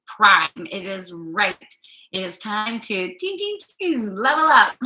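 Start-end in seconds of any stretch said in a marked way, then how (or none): 3.2-4.8 high, loud playful ding ding; excited cheer. Real, not acted. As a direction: cheer it like a game chime. Playful game-sound cheer.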